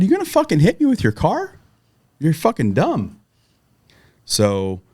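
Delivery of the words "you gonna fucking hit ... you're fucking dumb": retold furious yell. Facing the driver pushing his car at him, retold angry shout. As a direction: throw it at the driver in disbelief and rage.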